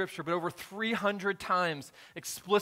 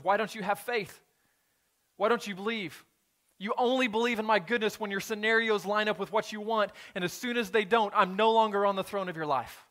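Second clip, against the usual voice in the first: raised, pressing voice of Jesus; Jesus rebuking; 4 semitones higher, 4 dB louder than usual. Acted. Jesus confronting his disciples about their faith, raised and pressing. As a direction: challenge them, why don't you believe.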